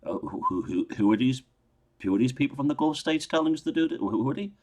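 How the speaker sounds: incredulous citizen's protest, pushing back; indignant questioning. Retold or imitated. Irish protester asking who is meddling, indignant. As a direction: ask it like someone who can't believe what's happening. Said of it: "by saying".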